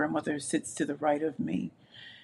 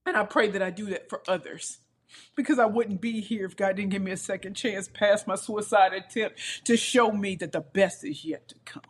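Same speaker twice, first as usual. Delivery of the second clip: tearful, slightly raised voice; crying; 3 semitones higher than usual. Real, not acted. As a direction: keep going through real tears. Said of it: "Sorry, I'm crying".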